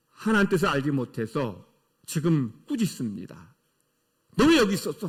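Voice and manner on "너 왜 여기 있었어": mild mock parental reprimand; retold scolding. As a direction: imitate a parent briefly telling off a child. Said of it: "하면서 꾸짖어요".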